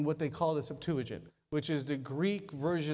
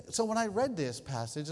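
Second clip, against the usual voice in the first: normal talking voice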